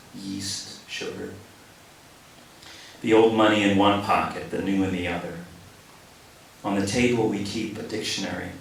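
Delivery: measured, pausing poetry read; poem reading. Acted. Poet reading his own poem to the audience, measured.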